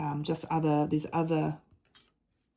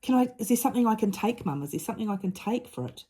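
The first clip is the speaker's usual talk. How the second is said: put-on a higher, mild child's plea; a higher, mildly voiced plea from the daughter; pleading child; 7 semitones higher, faster than usual. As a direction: lightly voice the daughter asking for medicine. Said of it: "she said to me".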